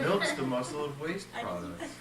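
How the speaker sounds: repeating it with a laugh; amused, impressed echo. Retold or imitated. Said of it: "amazing and scientific sounding".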